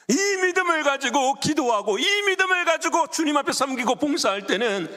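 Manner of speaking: high, insistent sermon declaration; impassioned pulpit voice; fervent preaching. Real, not acted. Preaches at full force.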